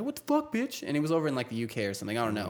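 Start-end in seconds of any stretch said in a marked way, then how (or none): 0.0-0.8 imitated trash talk. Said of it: "he was just talking shit to people".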